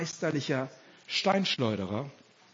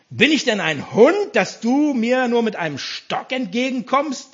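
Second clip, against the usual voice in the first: loud, raised challenge, moderately roared; Goliath's roar; 4 semitones higher, 5 dB louder than usual. Acted. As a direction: bellow indignantly at a small challenger. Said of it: "brüllte Goliath ihn an".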